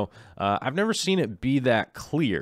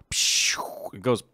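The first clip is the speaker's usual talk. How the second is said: whispering. Real, not acted. Hushed aside in hose analogy.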